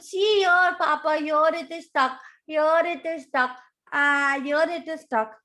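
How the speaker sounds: eager high little croc; baby crocodile. Acted. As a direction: point it out to Papa insistently. Baby crocodile showing Papa.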